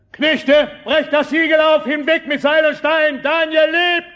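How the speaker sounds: high, loud joyful cry; excited shout. Acted. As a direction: call out the news, overjoyed. Servant orders seal broken, overjoyed.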